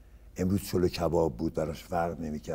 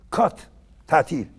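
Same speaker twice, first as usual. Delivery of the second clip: much higher, louder yelled cut, then shut down; angry shout; 10 semitones higher, 8 dB louder than usual. Retold or imitated. Director halting the shoot, yelling at the actor, loud and high. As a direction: shout it to shut the whole set down. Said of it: "سر من داد زد".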